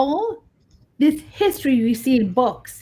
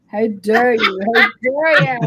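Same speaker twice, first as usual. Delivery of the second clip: playful outrage, building louder; mock indignation; 4 dB louder than usual. Investigator rebuking people who call her a tour guide, mock indignant. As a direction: act affronted, hamming it up.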